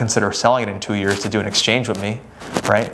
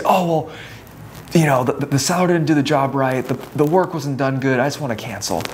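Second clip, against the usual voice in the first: lightly acted worried client, higher at first; mock fretting that eases off by the end; scared buyer; 4 semitones higher than usual. Buyer backing out to agent, mildly panicky. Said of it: "they get super scared of it".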